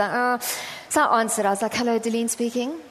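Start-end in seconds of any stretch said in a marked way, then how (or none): 1.7-2.8 curt, mildly annoyed phone greeting; irritated. Retold or imitated. Busy preacher answering an unknown number, mildly irritated. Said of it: "I'm really not hiding my irritation".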